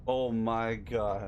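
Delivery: slow stunned oh my god; stunned disbelief; shocked. Real, not acted. Teammates killed.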